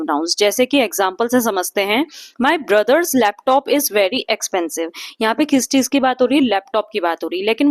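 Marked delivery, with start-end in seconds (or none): 2.4-4.9 very slow, careful read of the example. Acted. Teacher reading an example sentence to students, very slow. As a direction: read it out word by word.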